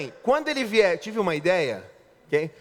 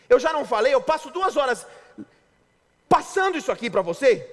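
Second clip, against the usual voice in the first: nagging wife; 5 semitones higher than usual. Retold or imitated. Pastor imitates a wife scolding her husband, higher nagging voice. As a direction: nag him like an irritated wife. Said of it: "já chega falando assim... Pilhando".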